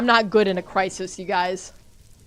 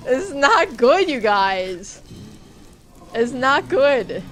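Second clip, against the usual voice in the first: slow, loud, rising alarm; real worry as the fight turns; 2 semitones higher, 4 dB louder, slower than usual. Real, not acted. Player telling chat a fight is going badly, alarmed.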